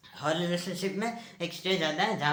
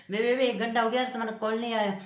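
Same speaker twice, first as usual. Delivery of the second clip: higher, stammering complaint; nagging girlfriend; 4 semitones higher than usual. Retold or imitated. Boyfriend mimics girlfriend complaining about no call, nagging.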